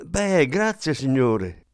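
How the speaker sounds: high, loud call down the stairs; calling after. A narrator's reading. Maid calls thanks after Gabriel down the stairs, loud call. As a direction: shout thanks after him. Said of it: "gli grridò dietro".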